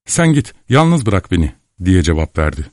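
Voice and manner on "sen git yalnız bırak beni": higher, pained dismissal; bitter voice. A narrator's reading. Cemile telling the narrator to leave, bitter and higher. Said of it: "Cemile acı bir sesle".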